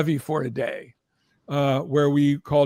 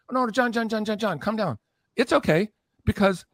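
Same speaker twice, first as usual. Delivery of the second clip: slightly hushed, higher-pitched placating; imitated soothing; 5 semitones higher than usual. Promoter calms screaming rock star on the phone, mock soothing.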